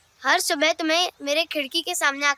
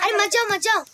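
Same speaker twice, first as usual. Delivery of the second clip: pleading call; 6 semitones higher than usual. Acted. Boy begs friends to stay.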